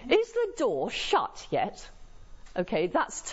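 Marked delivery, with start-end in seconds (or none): 0.1-1.9 slow, drawn-out impatient question; sarcastic. Shown as a demonstration. Lecturer demonstrating tone to students, slow mock impatience. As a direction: nag it sarcastically, stretching each word. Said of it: "I'm being sarcastic".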